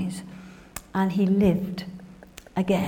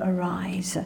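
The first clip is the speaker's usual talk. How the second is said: whispered command; 6 dB quieter than usual. Acted. The Lord raising the girl.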